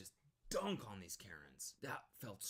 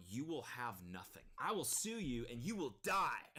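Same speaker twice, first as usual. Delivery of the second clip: mock intimidation; 3 semitones higher than usual. Streamer jokingly inventing a scarier threat, mock menacing. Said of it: "What could I say to intimidate this guy?".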